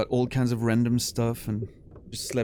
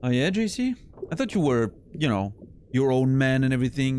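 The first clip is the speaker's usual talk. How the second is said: teasing; 3 semitones higher than usual. Real, not acted. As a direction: tease him with fake surprise. Teasing chatter.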